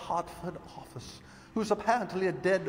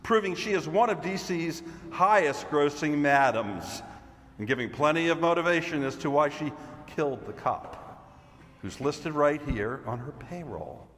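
loud, projected agent with the evidence; emphatic, theatrical announcement; triumphant Mr. Green; 4 dB louder, slower than usual. Acted. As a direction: present it like a stage detective's big reveal. Performs Mr. Green's monologue.

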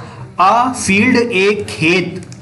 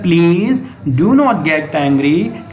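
gentle plea; much slower than usual. Acted. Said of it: "तो वो प्यार से".

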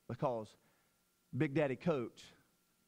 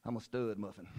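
stud muffin; 5 semitones lower, 4 dB quieter than usual. Shown as a demonstration. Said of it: "Now, I want you to say".

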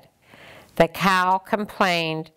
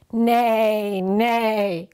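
horse neigh; 3 semitones higher than usual. Acted. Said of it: "All she heard was".

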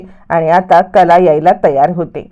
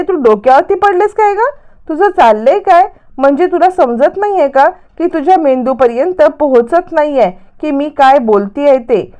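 mock yelling; 5 semitones higher than usual. Priya berates Sayali for not understanding, mock yelling. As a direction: start very high, then ease down. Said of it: "जोराजोरात अजून ओरडायला लागते".

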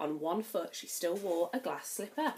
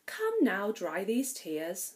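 gentle; slower than usual. Acted. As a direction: soothe a crying girl. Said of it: "said a gentle voice".

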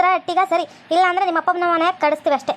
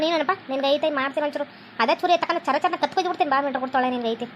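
muttered threat; 3 semitones lower, 5 dB quieter than usual. Acted. Mother-in-law grumbles under breath.

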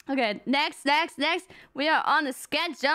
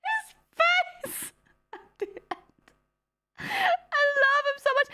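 tearful; 11 semitones higher, slower than usual. Real, not acted. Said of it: "I'm gonna cry".

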